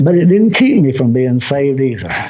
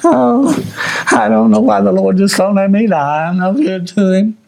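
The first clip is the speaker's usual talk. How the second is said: self-pitying whine; 3 semitones higher than usual. Retold or imitated. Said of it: "That's a pity trip".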